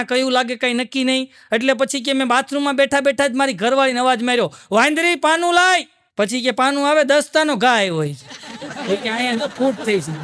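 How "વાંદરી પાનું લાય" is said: mock shout from the bathroom to his wife, higher; husband yelling to his wife for the spanner, higher; calling out. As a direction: yell for the spanner across the house.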